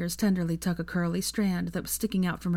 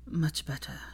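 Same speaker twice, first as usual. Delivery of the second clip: soft breathy sigh of relief; 2 semitones lower, 6 dB quieter than usual. Acted. Draco settling with Hermione, sighing in soft relief. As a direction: breathe it out, content. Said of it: "he sighed".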